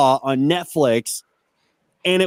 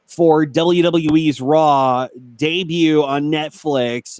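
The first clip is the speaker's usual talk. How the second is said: news read. Real, not acted. Reads out wrestling news item.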